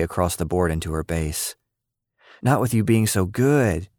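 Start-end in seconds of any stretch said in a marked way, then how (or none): 2.4-3.9 groaning. Acted. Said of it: "she groaned".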